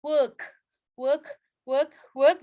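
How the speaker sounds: "work" on a neutral "uh" vowel, words separated; central vowel model. Shown as a demonstration. Teacher drilling work for students, separate careful repeats. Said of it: "Tapi dia bacanya e".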